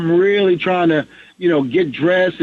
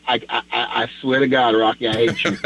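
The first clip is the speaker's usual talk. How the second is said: low, laughing half-mad groan; laughing mock fury; 6 semitones lower, faster than usual. To Rock on the phone, laughing mock anger. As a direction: fake outrage through laughter.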